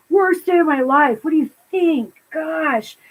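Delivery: lightly imitated teen exasperation; a hint of put-upon teenager; exasperated Napoleon. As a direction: put on a mildly indignant huff. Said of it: "Perfect Napoleon".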